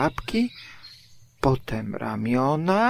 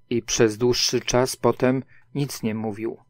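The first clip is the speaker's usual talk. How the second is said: plain reading voice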